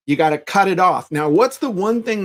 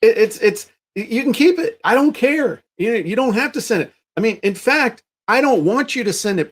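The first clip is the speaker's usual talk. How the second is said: higher, sing-song breezy politeness; mock cheery reply; 5 semitones higher than usual. To an angry customer after the refund, a higher mock cheery brush-off. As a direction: kill them with sweetness.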